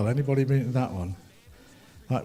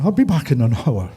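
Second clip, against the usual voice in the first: a light Irish accent, only mildly voiced; 5 dB louder than usual. Shown as a demonstration. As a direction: give the guitarist a gentle Irish lilt. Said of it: "Or in an Irish accent".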